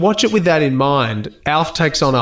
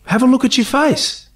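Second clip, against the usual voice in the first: quoted line, pointing; 12 semitones higher than usual. Retold or imitated. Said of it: "his line is".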